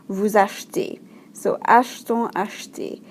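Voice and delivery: "achetez" and "achetons" with the middle E almost dropped. Shown as a demonstration. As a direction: say "achetez" as ash-tay, "achetons" as ash-ton. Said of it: "that E kind of is dropped almost".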